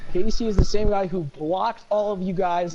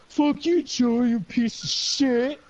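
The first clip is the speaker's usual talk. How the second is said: higher, slow mock yell; hammed-up angry parting shot; retold angry outburst; 6 semitones higher, much slower than usual. Teammate quits the match, yelling in mock anger. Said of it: "he just goes".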